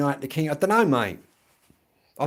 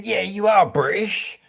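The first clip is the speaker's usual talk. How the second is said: higher, louder, slower put-on voice; imitating the phone girl; 7 semitones higher, 5 dB louder than usual. Phone bill call, girl insisting he is British, mock voice. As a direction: mimic the girl on the phone, drawn out. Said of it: "tried telling me".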